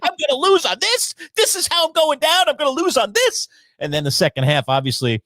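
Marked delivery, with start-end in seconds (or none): 0.0-3.5 high, panicky whine; mock panic. Fretting about losing his fantasy week. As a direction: act out dread of losing. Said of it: "I'm like".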